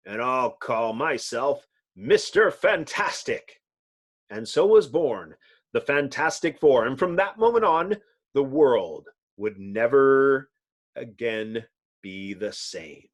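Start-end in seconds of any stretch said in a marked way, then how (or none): 4.3-13.1 grand, slowing radio narrator voice; old-time radio announcer; dramatic narration. A narrator's reading. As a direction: build it up, then let it sink.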